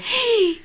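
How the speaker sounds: high gasp of mock shock; sharp mock gasp. Real, not acted. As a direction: gasp in fake outrage. Mock outrage at accusation.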